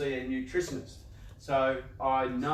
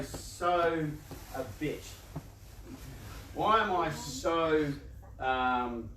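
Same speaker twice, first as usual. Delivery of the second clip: slow self-questioning; slower than usual. Retold or imitated. Voicing self-critical questions, slow.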